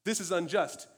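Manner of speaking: high, loud indignant protest; David's protest. Retold or imitated. David to his adversaries, loud indignant protest. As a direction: confront the liars, fast. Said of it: "he says".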